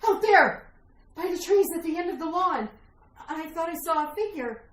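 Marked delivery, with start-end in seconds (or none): 0.1-0.7 alarmed. Acted. Frightened wife points out intruder.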